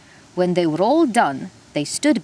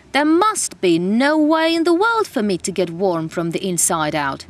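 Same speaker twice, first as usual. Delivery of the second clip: shouting. Acted. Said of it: "he shouted".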